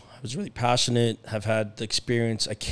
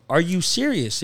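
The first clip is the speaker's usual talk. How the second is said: surprised; 5 semitones higher, 3 dB louder, slower than usual. Retold or imitated. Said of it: "I go".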